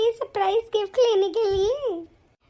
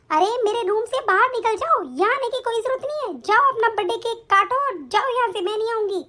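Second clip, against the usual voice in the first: angry dismissal. Acted. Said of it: "और इतना गुस्सा वो भी इतने अच्छे मौके पर".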